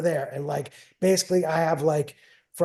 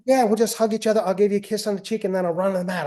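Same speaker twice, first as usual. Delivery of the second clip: imitating daughter; 4 semitones higher, faster than usual. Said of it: "She's like".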